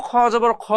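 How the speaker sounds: খ জবর খ ending in rounded KHO; thick heavy KHO. Shown as a demonstration. Teacher asking students why, খ pronounced thick. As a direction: keep the last "খ" heavy, vowel toward O. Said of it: "হরফগুলোকে মোটা করতে হয়".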